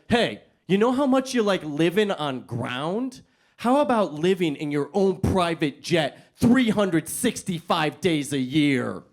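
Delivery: slow, bigger salesman pitch. Acted. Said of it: "let's go bigger".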